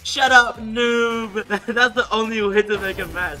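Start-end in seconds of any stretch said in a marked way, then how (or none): 0.0-1.5 taunting. Acted. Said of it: "I'm just gonna make him mad".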